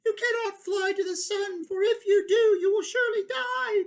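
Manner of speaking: high, loud warning shout; crying out. Acted. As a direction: call up in desperation. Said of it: "they cried".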